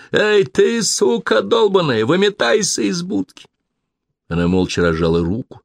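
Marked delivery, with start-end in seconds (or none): 0.1-3.5 high furious yell; man outside the booth yelling at Molly, furious. A narrator's reading. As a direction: bang on the door and shout. Angry man yelling at phone booth.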